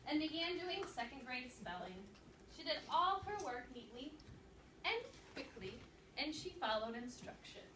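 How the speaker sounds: lively read-aloud narration for a class; story read-aloud. Acted. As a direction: read the chapter to second graders with energy.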